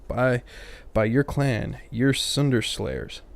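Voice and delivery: badly faked Irish accent, slowing at the end; terrible Irish accent. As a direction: read the character with a poor Irish accent. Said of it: "I don't know why I'm giving it to him".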